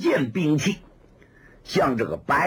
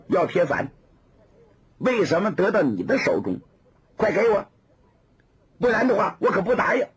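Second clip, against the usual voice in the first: put-on indignant young woman; 3 semitones higher than usual. Woman demanding.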